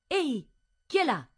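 high, loud challenge; calling out. A narrator's reading. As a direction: shout out to whoever is hiding there. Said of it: "s'alza e grida".

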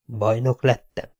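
a hushed dazed question; quiet musing of a battered knight; inner question. Acted. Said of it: "jutott eszébe a kérdés".

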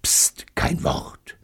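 slow, secretive whisper; urgent hushing whisper. A narrator's reading. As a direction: hush him right in his ear. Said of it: "Betty mir ins Ohr flüstern".

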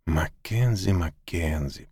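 soft, hushed name; tender whispered name. A narrator's reading. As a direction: call him gently. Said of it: "прошептала она".

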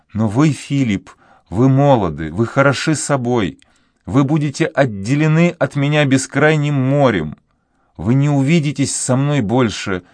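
put-on a heartbroken girl vowing fidelity; young woman pleading; grieving girl. A narrator's reading. Voices the girl Juana.

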